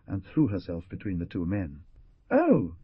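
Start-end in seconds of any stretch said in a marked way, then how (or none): 2.3-2.7 high, loud cry of alarm; frightened exclamation. Acted. Carmela throwing herself between the two men, crying out. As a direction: gasp it out in fright. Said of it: "she exclaimed".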